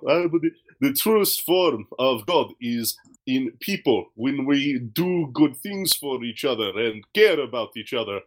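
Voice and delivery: put-on a loose African accent, drawn out slowly; slow vague African accent. Quoting the driver on God, in a slow mock African accent. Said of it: "kinda trying African".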